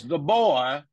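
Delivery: slow, weighty pronouncement with stretched words; deliberate, measured mock-authority; Cosby impression. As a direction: draw out each word like a solemn verdict. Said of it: "Cosby walks up ... and goes".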